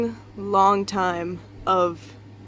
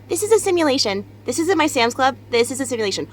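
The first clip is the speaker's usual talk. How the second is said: mock freaked-out girl; 4 semitones higher, faster than usual. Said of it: "and was like".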